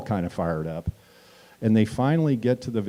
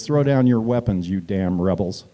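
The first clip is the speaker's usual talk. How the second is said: raised mock yell at rebels; retold scream; 4 dB louder than usual. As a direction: shout the order, half-acted. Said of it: "he screams at Parker".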